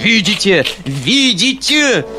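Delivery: high, loud ranting tirade; furious shrieking. A narrator's reading. Foma rants at the uncle, shrieking furiously. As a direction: tear and stamp on the letter in fury. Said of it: "взвизгнул Фома, мгновенно воспламеняясь".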